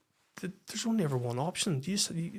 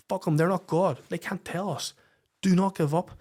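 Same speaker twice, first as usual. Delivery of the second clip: pleading; 5 semitones higher than usual. Retold or imitated. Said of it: "I'm begging her".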